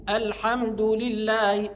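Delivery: very slow "الحمد" ending in a clear du; damma on dal. Shown as a demonstration. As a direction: stretch it out, alhamdu for "الحمد". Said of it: "والدال مضمومة". (نطق "الحمد" بضم الدال ببطء)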